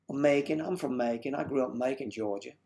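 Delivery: lightly voiced Southern accent; put-on southern accent. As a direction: answer in a mock Georgia accent. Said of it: "break into an accent".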